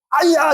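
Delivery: sudden high "아야!" yelp; yelp of pain. Retold or imitated. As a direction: flinch and cry out. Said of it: "이렇게 딱". (높게 "아야!" 하고 아픈 소리)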